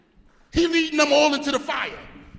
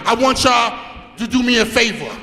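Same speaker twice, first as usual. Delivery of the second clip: rallying shout; 5 dB louder than usual. Real, not acted. Coach shouting to his boxers to punish the fighters. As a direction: fire the team up, louder on punish them.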